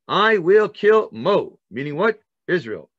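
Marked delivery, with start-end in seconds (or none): 0.1-1.6 loud, slow, higher threat; menacing Pharaoh. Acted. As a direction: hammer out the threat like a tyrant. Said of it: "Pharaoh says".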